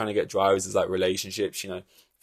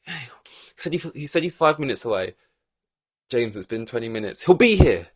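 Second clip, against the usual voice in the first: hopeful waiting boss; 3 semitones higher than usual. Retold or imitated. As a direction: imitate him insisting the driver's coming.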